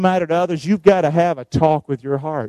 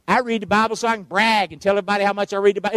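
mocking braggart; much faster than usual. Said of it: "Is that stupid or what?".

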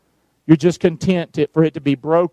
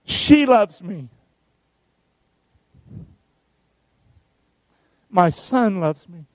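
gentle self-talk demo; slower than usual. Shown as a demonstration. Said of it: "Here's how I do it".

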